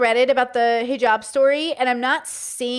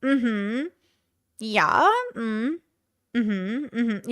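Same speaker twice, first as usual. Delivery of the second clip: demonstrated "mm-hmm" of assent; agreeing sounds; 4 dB quieter, much slower than usual. Shown as a demonstration. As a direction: agree softly in little closed-mouth hums. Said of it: "It's just an agreeing sound".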